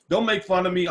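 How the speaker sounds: muffled by dental appliance; speaking around mouth device; mouth full. Real, not acted. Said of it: "I'm talking funny".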